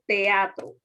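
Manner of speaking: TEATRO with E and A apart, te-A-tro; careful TEATRO, stressed on a separate A; correct hiatus. Shown as a demonstration. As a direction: say TEATRO in three clear syllables. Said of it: "Lo correcto es decir".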